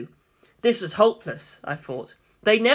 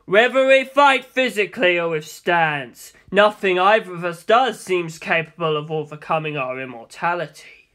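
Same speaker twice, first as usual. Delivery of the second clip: Dio's voice; 4 dB louder than usual. Acted. Dio speaks, character voice.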